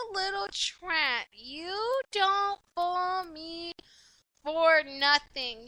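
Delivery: talking around a cigarette; slow, soft words past a cigarette; cigarette in mouth. Real, not acted. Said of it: "let me light a cigarette".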